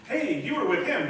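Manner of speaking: accusing bystander. Retold or imitated. Accuser confronting Peter.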